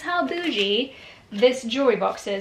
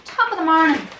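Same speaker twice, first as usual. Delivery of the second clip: a light put-on Irish accent; hammed-up Irish brogue for a laugh; mock Irish accent; 3 semitones higher, 3 dB louder than usual. Joking to viewers while opening parcels, mock Irish accent. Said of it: "why we've gone Irish".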